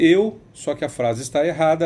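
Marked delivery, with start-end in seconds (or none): 0.0-0.4 "eu" punched higher and louder, drawn out; loud, high mock of "eu" stressed in the wrong place; overstressed eu. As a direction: belt "eu" on the wrong beat like a clumsy singer. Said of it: "Ela vai dizer".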